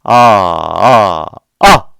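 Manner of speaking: full-power ah shout. Shown as a demonstration. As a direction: yell ah from the belly. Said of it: "이렇게 소리를 세게".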